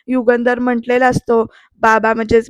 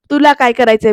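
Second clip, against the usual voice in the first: mocking echo; 3 dB louder than usual. Aarti mocking Pruthvi's question back at him. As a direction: mimic his words back at him. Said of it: "तर आरती म्हणते".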